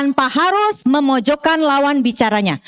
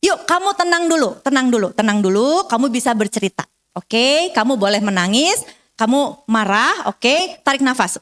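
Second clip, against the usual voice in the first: put-on calming a crying child. Shown as a demonstration. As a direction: soothe the child gently. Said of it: "Kita harus validasi".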